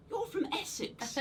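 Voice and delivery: high-pitched, drawn-out objection; incredulous protest. Acted. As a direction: squeak it out in baffled disbelief. Baffled employee answers the boss.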